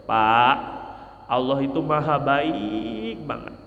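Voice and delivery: mildly softened, tender encouragement; gentle reassurance. Shown as a demonstration. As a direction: reassure him tenderly of God's mercy. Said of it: "motivasi tentang rahmat Allah".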